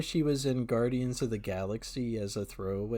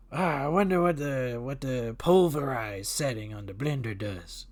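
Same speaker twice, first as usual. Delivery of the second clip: Adam Sandler voice. Retold or imitated. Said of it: "He's like".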